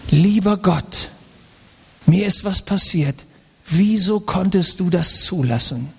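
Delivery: mock plea to God. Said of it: "ich sag Ihnen mal, wie ... klingt".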